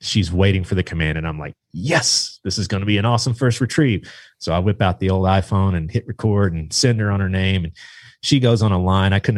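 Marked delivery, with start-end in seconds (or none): 1.7-4.1 eager, hopeful cheer, pitched up; a quick burst of mild excitement; thrilled inner voice, lightly acted; excited. Acted excited thought in story.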